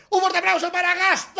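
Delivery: loud, high welcome call for the guest; announcer shout. Acted. Host introducing the guest to the radio audience, loud announcer call. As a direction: hype up the guest entrance.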